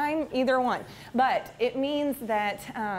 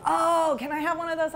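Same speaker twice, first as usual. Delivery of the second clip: higher-pitched imitation of an eager kid; lightly voiced boy spotting something he wants; excited boy; 5 semitones higher than usual. Boy asks for a stress ball from the back seat, excited imitation. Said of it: "one of the boys".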